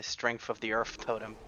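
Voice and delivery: "strength" and "earth" ending in f; retold slip, f for th in "strength" and "earth". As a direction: say "strengf of the earf totem". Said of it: "say F instead of T H".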